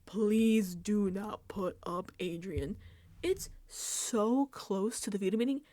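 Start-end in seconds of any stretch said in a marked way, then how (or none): 0.1-2.8 mock pleading. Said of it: "pleading with her".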